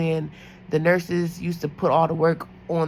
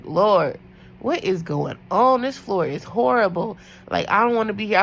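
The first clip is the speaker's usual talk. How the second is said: desperate prayer; 3 semitones higher, 4 dB louder than usual. Retold or imitated. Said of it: "I had to pray".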